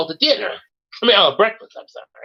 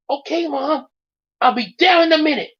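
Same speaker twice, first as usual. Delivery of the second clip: son answering; 10 semitones higher than usual. A narrator's reading. Son answers mother from upstairs.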